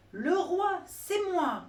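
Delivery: high loud triumphant cry; shouting monkey. Acted. Monkey flees with the crown, shouting high and loud. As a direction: crow it while running away. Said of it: "s'enfuit en criant".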